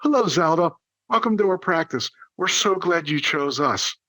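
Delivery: lifted hello settling into a measured welcome; sincere enthusiasm. Shown as a demonstration. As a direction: welcome the new patient sincerely and keenly. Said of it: "say it with sincerity and enthusiasm".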